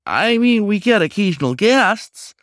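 high, squeaky and pleading. Acted. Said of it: "The raccoon's voice got squeakier the closer it got to pleading".

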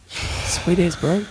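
laid-back bro drawl; broad kiwi accent. Pretend. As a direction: say it like a chilled Kiwi surfer. Surfer slang tag.

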